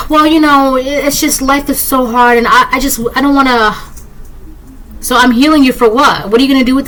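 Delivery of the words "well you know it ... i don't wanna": hammed-up sulky excuse; whiny victim voice. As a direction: whine like someone who won't help themselves. Mocking self-pitying person.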